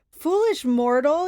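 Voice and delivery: loud, slow monster bellow; bellowing Cyclops. Acted. Cyclops rising over Percy, bellowing. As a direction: boom it down at the tiny hero. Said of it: "he bellowed".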